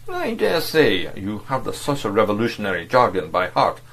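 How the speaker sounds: mildly contemptuous, condescending; a touch of scorn toward the agent. Acted. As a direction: look down on him with the words. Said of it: "he said contemptuously".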